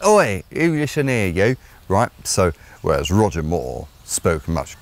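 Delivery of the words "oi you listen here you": Cockney Michael Caine. Retold or imitated. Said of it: "the accent of someone who came from there".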